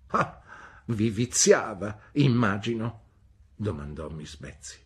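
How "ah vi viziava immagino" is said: high, loud, brusque "Bene?"; stern old aunt. A narrator's reading. Aunt Betsy demanding news from the mother, brusque. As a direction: demand an answer like a sharp old lady.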